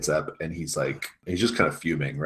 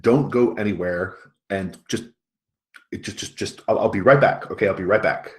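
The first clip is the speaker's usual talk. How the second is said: louder, higher, hurried commands; flustered rushed orders; 4 semitones higher, 6 dB louder than usual. Acted. Coach telling the kids to stay put before rushing home, flustered and loud. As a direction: bark hurried orders while backing out the door.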